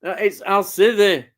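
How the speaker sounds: broad Yorkshire with a firmer push; Yorkshire accent. Shown as a demonstration. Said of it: "That's it, lad".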